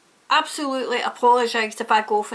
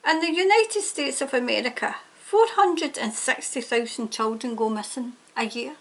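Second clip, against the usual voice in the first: ordinary talk, nothing marked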